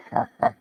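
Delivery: mock French chuckle; short, hammed-up French-style laugh; played-up French laugh. Shown as a demonstration. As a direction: put on a caricature French laugh. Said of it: "a version of French where I'm playing up".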